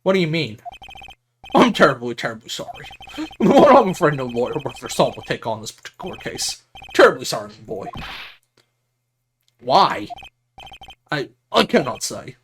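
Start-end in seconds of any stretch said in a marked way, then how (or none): 1.5-7.9 lightly voiced grand old attorney; pompous lawyer, apologetic. Lawyer turns down the boy's case, mildly pompous regret. 11.1-12.4 lightly voiced stuffy attorney; pompous lawyer, evasive. Lawyer asks the visitor to leave, mildly pompous.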